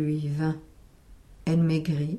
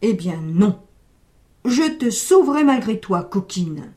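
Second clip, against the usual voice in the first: firm refusal; 4 dB louder than usual. Acted. Old man decides firmly.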